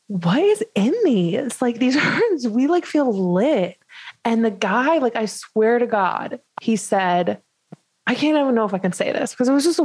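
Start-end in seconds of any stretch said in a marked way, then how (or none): 0.1-3.8 joking to waiter. Retold or imitated. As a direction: tease the waiter with a laugh in it. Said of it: "jokingly, like, to the guy".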